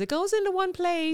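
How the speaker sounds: a hint of bossy insistence; imitating everyone. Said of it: "And everyone says".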